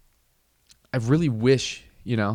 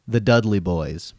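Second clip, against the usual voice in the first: louder, big wrestling-announcer call; ring announcer; 6 dB louder than usual. Pretend. Introducing the Dudley Boys on the car stereo, announcer boom.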